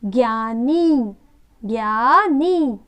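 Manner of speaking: ज्ञानी drawn out as gyaa-nee; ज्ञानी slowly, ज्ञा sounded as gya; slow model reading. Shown as a demonstration. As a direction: stretch ज्ञानी for the class. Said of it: "उसके बाद में".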